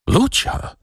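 high, rising exclamation of disbelief; disbelieving cry. A narrator's reading. Waking patient recognises Lucia at his bedside, disbelieving cry. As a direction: call the name up high, incredulous, without extra volume. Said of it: "krzyknął z niewiarą w głosie".

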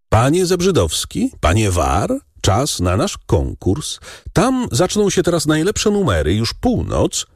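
calling out. A narrator's reading. Baron calls the gentlemen to the contest, shouting. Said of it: "zawołał baron".

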